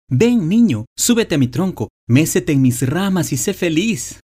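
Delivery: put-on a kind old tree coaxing the child to play; eager generous tree. A narrator's reading. Tree calls the boy again.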